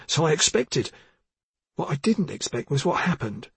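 put-on pleading, guilty young man; anxious young constable. Voices Ruddock.

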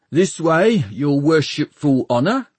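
fawning mumble from a humble servant; mumbling servant. A narrator's reading. Servant ushering the Lord Mayor inside, mumbling deferentially. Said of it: "he mumbled".

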